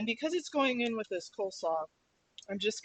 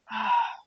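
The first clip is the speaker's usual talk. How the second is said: pained sigh; 2 semitones higher, 6 dB louder than usual. Real, not acted. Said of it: "It's the onions".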